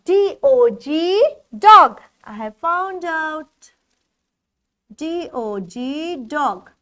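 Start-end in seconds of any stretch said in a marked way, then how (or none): 1.6-2.0 much louder, triumphant word; excited find. Pretend. Teacher finds the O word for the class, triumphant. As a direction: shout the word you found.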